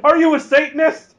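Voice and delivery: high, loud, laughing accusation; mock horror. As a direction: recoil from the goat kid with a laugh. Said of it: "putting their fingers up in a cross".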